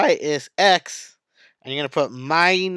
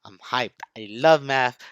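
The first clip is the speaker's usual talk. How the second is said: real hype; 4 semitones lower than usual. Real, not acted. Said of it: "I'm sorry if I'm yelling".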